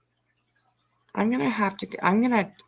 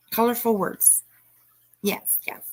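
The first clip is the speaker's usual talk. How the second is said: whispering; 2 semitones higher than usual. Real, not acted. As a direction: breathe it out secretly. Whispered aside.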